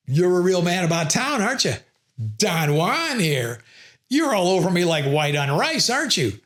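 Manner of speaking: sarcastic man-about-town jab; mocking irony. Shown as a demonstration. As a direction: needle the pushy colleague with a grin. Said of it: "use metaphors".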